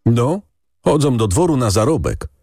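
put-on high, tearful village boy; peasant boy. A narrator's reading. Boy tells the lady, high and tearful. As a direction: speak as a guilty little shepherd boy.

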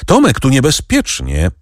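understated alarmed call; cried warning. A narrator's reading. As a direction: call a warning without real shouting. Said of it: "krzyknęła Kasia".

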